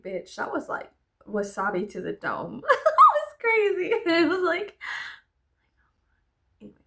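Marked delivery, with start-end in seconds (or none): 2.7-4.8 high laughing burst. Real, not acted. Laughing about raw garlic, cracking up. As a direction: crack up through it.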